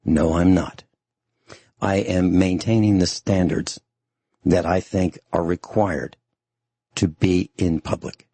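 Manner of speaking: ordinary delivery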